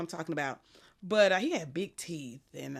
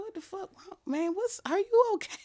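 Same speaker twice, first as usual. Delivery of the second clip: much higher, building into a loud laughing cry; incredulous; 13 dB louder than usual. Retold or imitated. Partner stunned by her request, laughing loud disbelief. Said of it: "And he was like".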